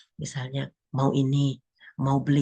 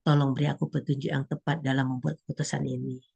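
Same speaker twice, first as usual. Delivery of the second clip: soft prayer; 4 semitones lower, 4 dB quieter than usual. Pretend. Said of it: "kita bisa berdoa terlebih dahulu".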